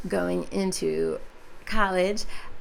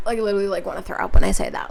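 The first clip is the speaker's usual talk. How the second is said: whisper; 5 dB louder, much faster than usual. Real, not acted. Dreading graduation, mock nausea.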